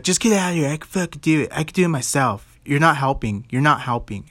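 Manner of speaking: imitating her irritated outburst, starting high; mock exasperated telling-off, easing down in pitch; fired up. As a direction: shoo him away like she's fed up. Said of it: "She was all fired up at me".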